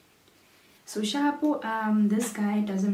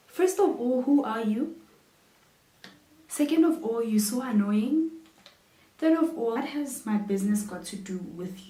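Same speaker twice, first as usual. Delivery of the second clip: building exasperation, higher and louder each time; irritated rant; 3 semitones higher, 4 dB louder than usual. Real, not acted. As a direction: count the grievances off, getting more fed up. Irritated rant at nosy stranger.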